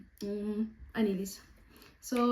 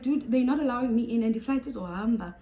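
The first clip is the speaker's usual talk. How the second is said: panicked; 2 semitones higher, 6 dB louder than usual. Retold or imitated. Panicking on phone at airport.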